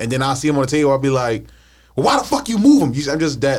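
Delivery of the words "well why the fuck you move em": high, loud angry shout; yelling across the room. Retold or imitated. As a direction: yell it at someone across the room. Retold blowup over moved keys.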